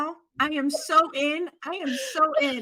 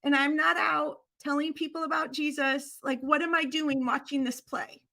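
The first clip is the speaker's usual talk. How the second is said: grandma's lament; 4 semitones higher than usual. Retold or imitated. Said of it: "And she said".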